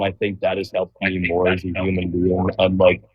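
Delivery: muffled, as if through a hand. Real, not acted. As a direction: speak with a hand over your mouth. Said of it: "You're kinda muffled".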